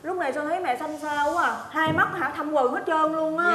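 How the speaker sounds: soft, caring voice; quiet, affectionate worry; tender concern. Acted. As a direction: fuss gently over an unwell mother. Tender concern for mother-in-law.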